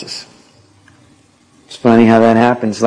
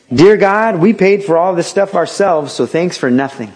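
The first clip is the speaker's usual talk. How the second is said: lightly voiced cheeky kid, higher; a hint of a bratty boy saying grace; Bart Simpson; 4 semitones higher than usual. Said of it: "Bart Simpson prayed this".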